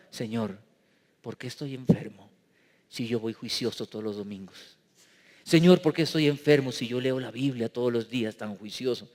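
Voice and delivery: low, soft, aggrieved plea to God; mock self-pitying reproach, quiet and low; reproachful prayer. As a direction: complain to God like a hurt servant. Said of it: "le sacamos en cara a Dios las cosas".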